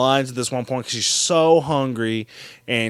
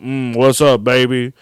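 lightly imitated smooth-talker in a lowered voice; Silky; 4 semitones lower, 4 dB louder than usual. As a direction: drop the pitch a touch, mock come-on. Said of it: "some guy using a voice modulator named Silky".

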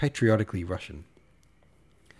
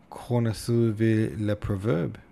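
French phrase; 3 dB louder, slower than usual. Acted. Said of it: "changing from French to Russian".

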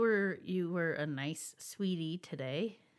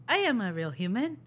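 stiff robot voice; deadpan android claiming humanity; robot faking human; 3 semitones higher, 5 dB louder than usual. Pretend. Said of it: "a robot android port".

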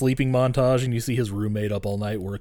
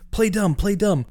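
much higher urgent self-coaching; mock inner panic; 9 semitones higher, 4 dB louder than usual. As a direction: hiss the plan to yourself in a high voice. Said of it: "he's like".

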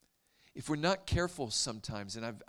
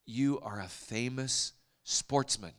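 slow, deliberate quote of excited villagers; mimicked villagers; 5 dB louder than usual. Villagers telling the visitor he is an athlete, slow and emphatic. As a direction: imitate villagers pronouncing judgment word by word. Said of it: "And then they said".

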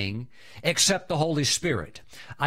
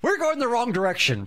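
laughing; 8 semitones higher than usual. Retold or imitated. Laughing at driving the wrong way, high and giddy. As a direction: giggle the words out high. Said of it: "And we started laughing".

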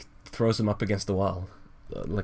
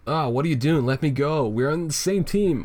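higher-pitched protest while being choked; acted protest; 5 semitones higher than usual. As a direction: plead as the choked Tails, mildly hammed-up. Voicing Tails being choked.

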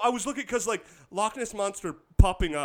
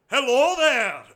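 higher, loud mock hello; monster's greeting; 4 semitones higher, 7 dB louder, slower than usual. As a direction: call out a big, pitched-up greeting. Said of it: "but he would be like".

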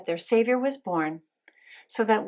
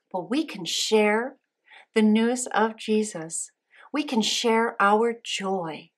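put-on broad singsong kids theatre; slower than usual. Children's lesson, slow emphatic delivery.

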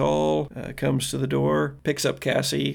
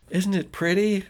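put-on higher, lightly girlish voice; admiring girl; 6 semitones higher than usual. Girl shows off boyfriend's truck, admiring. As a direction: gush a little, pitched up.

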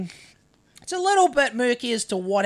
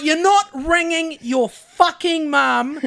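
slow, higher-pitched mock-angry no; retold firm refusal; 5 semitones higher, 3 dB louder, slower than usual. Storyteller refusing the kid a phone call, retold exasperation. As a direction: lay down the law word by word.

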